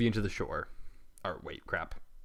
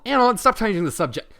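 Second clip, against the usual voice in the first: higher, sharp angry retort; angry reply; 11 semitones higher, 6 dB louder than usual. Acted. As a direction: snap back at him, fed up. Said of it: "Twilight angrily responds".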